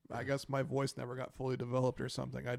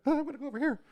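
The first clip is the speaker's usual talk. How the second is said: much higher, prissy dog voice; dog's voice; 12 semitones higher, 3 dB louder, much faster than usual. Pretend. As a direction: aloof dog brushing off petting. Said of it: "she'd be like".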